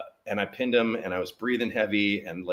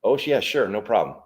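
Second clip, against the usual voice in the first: sarcastic; 2 semitones higher, 5 dB louder than usual. Retold or imitated. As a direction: toss it off with sarcasm. Sarcastic reply to wrestling a bull.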